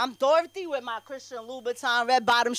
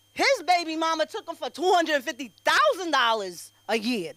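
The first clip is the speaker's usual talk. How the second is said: ordinary talk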